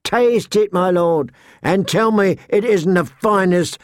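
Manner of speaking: high-pitched, lilting sales patter; coaxing wine seller. Acted. Seller urging the suspicious lord to taste, high coaxing voice.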